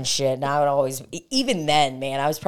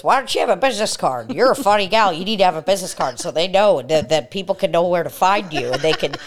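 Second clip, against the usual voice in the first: put-on old guy; 3 semitones higher, 4 dB louder than usual. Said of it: "I had some old guy, he goes".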